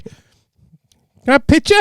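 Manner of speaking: high, slow broken-English request; hammed-up simplified English; mock foreigner-speak. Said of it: "So I was like".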